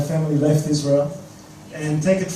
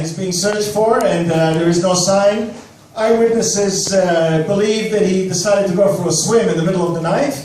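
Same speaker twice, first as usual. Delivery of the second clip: mock Australian news reporter. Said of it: "I could already see the, the Australian news reporter".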